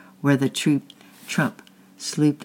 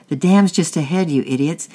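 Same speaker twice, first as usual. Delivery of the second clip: louder, higher shout of warning; angry yell; 4 semitones higher, 6 dB louder than usual. A narrator's reading. Angry man on the bank yelling at boys in the boat. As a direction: yell it at the boys drifting toward danger. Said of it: "yelled the young, the angry man".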